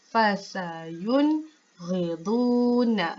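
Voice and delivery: Fasayunghiduna, very slow, nun clear before ghin; slow, clean syllables; careful recitation; clear reading, no dengung. Shown as a demonstration. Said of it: "kita baca dengan jelas, dengan terang".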